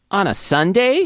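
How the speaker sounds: high, pouty questioning lilt; pouting. A narrator's reading. The hookup objects to a Sunday meeting, pouting. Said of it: "she says with a pout".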